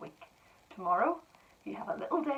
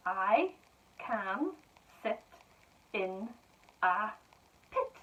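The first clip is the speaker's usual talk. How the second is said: each word set apart and clear; slow dictation; slower than usual. Shown as a demonstration. Teacher dictating to pupils, slow and clear. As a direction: dictate slowly to young writers.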